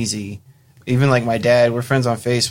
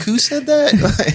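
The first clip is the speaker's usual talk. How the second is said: mock surprise; 13 semitones higher, 3 dB louder, much slower than usual. Joking reaction to Facebook comment.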